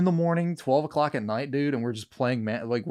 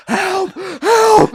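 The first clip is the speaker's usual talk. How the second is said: mock yell; 10 dB louder than usual. Fleeing a shadow figure.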